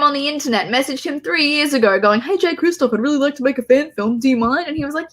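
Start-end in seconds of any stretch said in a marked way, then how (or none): 2.2-4.7 lightly voiced eager stranger, pitched up; high, breezy mock-fan pitch; naive fan request. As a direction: imitate a hopeful, casual ask. Voicing own cheeky request to author.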